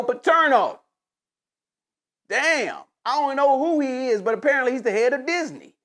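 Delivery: lightly voiced Shannon Sharpe getting fed up; imitating Shannon Sharpe. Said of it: "if I'm Shannon Sharpe, I'm like".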